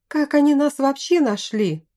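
high-pitched murmur of complaint; alarmed grumbling. A narrator's reading. Bandit questioning how they were found, grumbling in alarm. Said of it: "зароптал кто-то".

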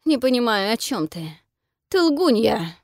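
spluttering after water; coughing up water. A narrator's reading. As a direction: sputter the words out. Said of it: "кашляет, выплёвывая воду".

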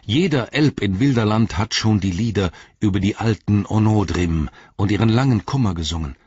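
high, fervent elf voice; impassioned exclamation. A narrator's reading. Legolas defends the old songs of Onodrim, impassioned. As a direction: protest with rising fervour. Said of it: "rief Legolas".

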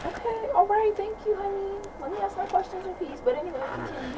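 sarcastic, exasperated; pointedly sweet annoyance; annoyed. Real, not acted. Teen annoyed at interruption.

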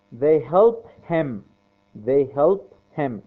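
very slow, word by word; slow drilling. Shown as a demonstration. Teacher drilling students on the verb, very slow and clear. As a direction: drill it so students can repeat. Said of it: "teacher drills sentence for class".

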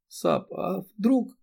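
high, slow, tearful question; a choked, drawn-out plea; quietly crying. A narrator's reading. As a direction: let the tears break through softly. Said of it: "Эри тихо заплакала".

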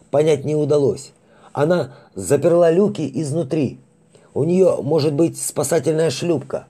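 high, urgent soldier giving orders; gruff space marine. Acted. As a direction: push the report out under pressure. Lieutenant gives urgent orders. (напряжённый голос командира)

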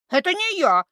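high loud squeal; shrill little spirit voice; squealing creature. A narrator's reading. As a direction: squeal out the denial. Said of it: "взвизгнула Кикимора".

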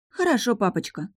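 put-on a high, sulky little girl's voice; sulky agreement. A narrator's reading. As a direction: give in grudgingly like a child. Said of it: "угрюмо согласилась она". (угрюмо, детским голосом)

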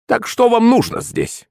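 put-on high, slow suspicious old hag; eyeing the strangers warily; unfriendly crone. A narrator's reading. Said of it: "недобро покосилась на меня старуха". (высокий недобрый голос старухи)

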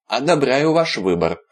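butter him up sweetly; obsequious. Acted. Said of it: "угодливо сообщил Виталик".

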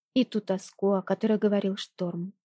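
plain reading voice

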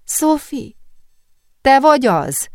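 put-on high, thin girl's voice; high questioning call from a tearful friend; thinned voice. A narrator's reading. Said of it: "elvékonyodott hangja".

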